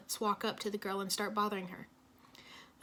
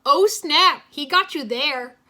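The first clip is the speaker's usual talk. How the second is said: snickering; 5 semitones higher, 14 dB louder, slower than usual. A narrator's reading. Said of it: "Cole snickered".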